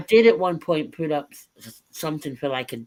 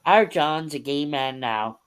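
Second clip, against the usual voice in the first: Belfast accent impression; slower than usual. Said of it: "That's Catherine Tate".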